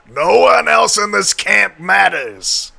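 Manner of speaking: put-on half-joking New York tough-guy accent. Streamer riffing on cartoon heroes, sudden slow New York accent. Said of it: "I don't know why I have a New York accent now".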